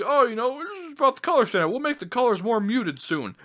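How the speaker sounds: sarcastic high-pitched imitation of the moderator; mocking Luna. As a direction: mimic her dismissive reply. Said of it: "they come and say".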